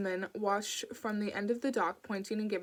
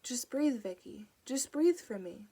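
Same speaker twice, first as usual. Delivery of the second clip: put-on light Indian accent; 3 semitones higher than usual. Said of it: "She said it in a light Indian accent".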